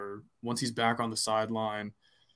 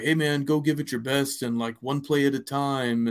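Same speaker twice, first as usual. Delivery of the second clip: coach speak; 2 semitones higher than usual. Retold or imitated. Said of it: "I know the coach speak".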